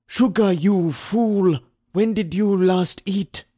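high, slow, exasperated bark; harsh barking commands. A narrator's reading. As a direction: snap at the fool, dragging it out. Overseer repeats the question, angrier.

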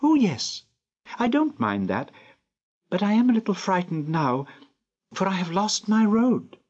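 put-on high child's voice with a touch of fear; a child admitting she has lost her way; lost little girl, frightened. A narrator's reading.

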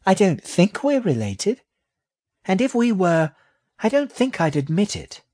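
very high little rat voice; high-pitched, dismissive young creature; haughty baby rat. A narrator's reading. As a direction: deny it as a proud tiny rat.

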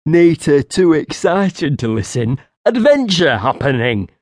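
a hint of a giddy simple creature; barely contained excitement. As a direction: burst with excitement in simple words. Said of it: "barely able to contain his excitement".

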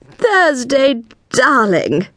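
high, bright-voiced cry of welcome; cried greeting. A narrator's reading. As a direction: gush it out, arms wide. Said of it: "cried Cordelia".

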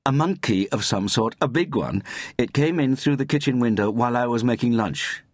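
high-pitched, pressing explanation; agitated report. A narrator's reading. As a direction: explain it urgently to the police. Agitated caller reporting to police.

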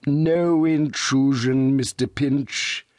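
slow, sugary welcome; father greets Mister Pinch very sweetly. A narrator's reading. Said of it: "said Mister Pecksniff very sweetly".

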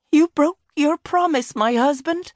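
high, ghostly woman's voice; unearthly voice. Acted. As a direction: sound like a ghost from beyond. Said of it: "said the ghost of Tay".

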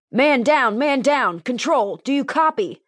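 high, urgent radio call; frantic. Acted. Officer radioing control after the escape, frantic. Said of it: "a frantic voice radioed in".

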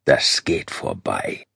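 low, slow, slurred through fangs; marbles in mouth. Acted. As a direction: mumble around a mouthful of fangs. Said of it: "Auch der deutsche Vampir klang undeutlich". (undeutlich, wie mit Murmeln im Mund)

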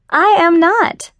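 high, slow, offended protest; a shocked, drawn-out no; indignant denial. Acted. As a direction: deny it, scandalized. Friends bickering about sex.

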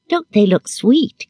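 put-on high, drawn-out cooing of a little girl; maternal pride. A narrator's reading. Little girl showing off her dolls, proud. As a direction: coo it slowly, high and proud. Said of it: "gazing with maternal pride".

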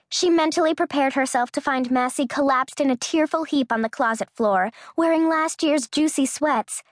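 plain reading voice

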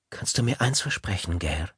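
soft, close, hushed question; leaning in to whisper. Acted. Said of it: "beugte sich etwas zu Gail hinüber".

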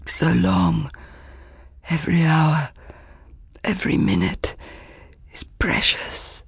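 rasping, fading to a whisper; urgent, dry-throated pleading; hoarse urgent whisper. Acted. Exhausted messenger pleads urgently.

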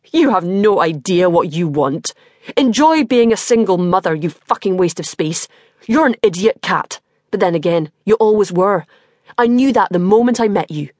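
venomous, contemptuous sneer. Acted. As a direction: spit the insults with scorn. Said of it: "He sneers at me with such venom".

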